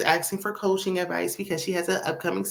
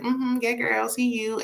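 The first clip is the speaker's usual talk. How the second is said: mock fake-polite reply; 5 semitones higher than usual. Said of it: "Latrice is like".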